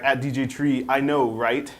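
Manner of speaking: lightly hammed-up tweet reply; dramatic reading. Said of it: "could you do a dramatic reading here?".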